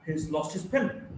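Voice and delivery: weight on "lost" and "pen", "He's" and "his" reduced; native sentence stress. Shown as a demonstration. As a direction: model it for learners, "pen" rising. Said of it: "basically two words".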